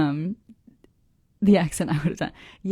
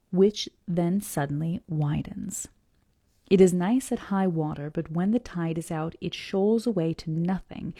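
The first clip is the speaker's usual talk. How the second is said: measured, deliberate reading aloud; story narration; 5 dB louder than usual. A narrator's reading. Reader reads the harbor description to listeners, story narration. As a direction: read it out carefully, phrase by phrase.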